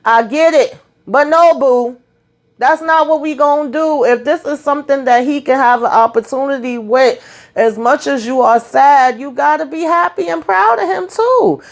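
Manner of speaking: high, impassioned mama plea, no boo, no; heated motherly lecture to a TV character; pleading with Nina. Retold or imitated. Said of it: "I said".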